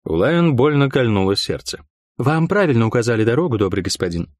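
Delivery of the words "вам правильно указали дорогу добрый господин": obsequious. Acted. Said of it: "подобострастно ответила она".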